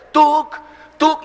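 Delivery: sharp high "Tuk!" like a blow; mock "tuk" strike noise. Friend jokingly striking with an invisible club, high sharp sound.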